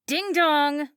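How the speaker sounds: put-on bully the kid like a spiteful mom; coked-up mom taunting her daughter at the wheel; mocking drunk mother. A narrator's reading. Christy taunting.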